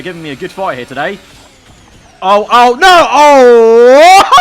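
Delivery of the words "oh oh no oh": shocked laughter. Real, not acted. Car launched into the air.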